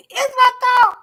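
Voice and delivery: high loud laughing exclamation; laughing outburst. Real, not acted. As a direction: blurt it out through a laugh. Repeats thought, then bursts out.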